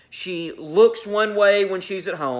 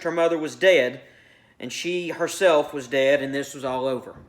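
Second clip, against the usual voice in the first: measured read-aloud of a short story; narrating fiction to a class; story narration. A narrator's reading.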